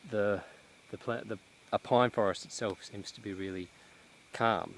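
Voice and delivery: a little out of breath while walking; slightly winded, catching breath between words. Real, not acted. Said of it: "I'm just trying to catch my breath".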